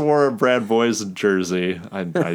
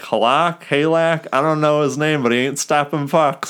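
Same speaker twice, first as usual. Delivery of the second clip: heckling fan; 7 semitones higher than usual. Retold or imitated. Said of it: "this guy was like".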